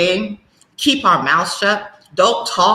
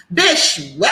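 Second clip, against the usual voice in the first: sharp outburst; 4 semitones lower than usual. Real, not acted. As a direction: blurt it out in outrage. Outburst at the quote.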